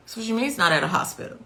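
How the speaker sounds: frantic fast disbelieving retort; freaking out. Retold or imitated. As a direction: rush it out in disbelief. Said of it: "I'm freaking out".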